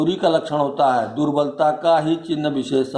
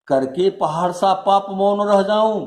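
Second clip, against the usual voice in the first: recited queen's question, pitched up; rhetorical question; 4 semitones higher than usual. Acted. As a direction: ask it as a mildly indignant, self-accusing challenge. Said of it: "question करती हैं".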